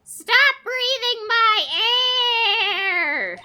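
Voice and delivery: slow, high, screamed demand; drawn-out, high-pitched raging yell; frenzied scream. Acted. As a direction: scream each word out in desperate fury. Acted frenzied attack over air.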